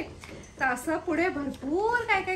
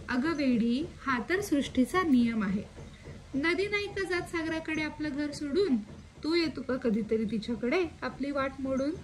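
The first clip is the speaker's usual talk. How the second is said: poem recital. Acted. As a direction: read the grandmother's answer gently, like a poem. Poem, grandmother's answer.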